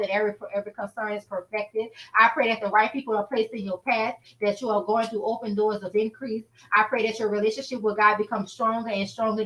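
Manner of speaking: steady earnest prayer voice. Acted. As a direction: pray over the listeners. Leads a closing prayer.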